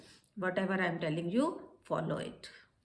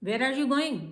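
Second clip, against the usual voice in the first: higher, louder questioning tone; questioning expression; 4 semitones higher, 4 dB louder, much slower than usual. Shown as a demonstration. Teacher shows the expression of a question, higher and louder. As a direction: ask it with a real question's expression. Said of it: "question पूछने का expression और होगा".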